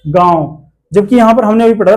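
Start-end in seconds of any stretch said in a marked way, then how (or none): 0.1-0.7 गांव said slowly with a long nasalised vowel; long nasal vowel. Shown as a demonstration. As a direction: draw out गांव through nose and mouth. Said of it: "इसका उच्चारण लंबा होता है".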